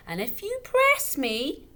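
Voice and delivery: put-on slow, high, loud drunken bluster; tipsy father blustering at the widow. A narrator's reading. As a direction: lean into it, glass in hand. Father brandishing wine glass.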